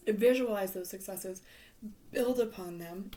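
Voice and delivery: hoarse, losing her voice. Real, not acted. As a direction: voice going hoarse and worn. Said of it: "I'm losing my voice".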